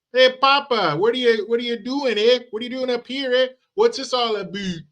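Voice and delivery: put-on a high, bouncy kid's voice asking Papa; child voice. Grandchild greeting grandpa at his cabin, high kid voice. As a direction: pipe up like an eager grandchild.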